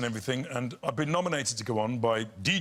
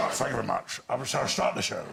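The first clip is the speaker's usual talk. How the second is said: stage impression; 4 semitones lower than usual. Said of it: "she made me do the impressions".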